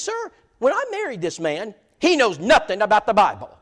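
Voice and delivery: high falsetto imitation of an excited lady; mock high woman's voice. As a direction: squeak it out like a delighted Southern lady. Brenda complaining about her husband.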